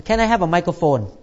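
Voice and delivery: quiet, fast mock of a shy speaker; mumbling nervous testifier. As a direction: mumble it like someone shy at the mic. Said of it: "give testimony this way".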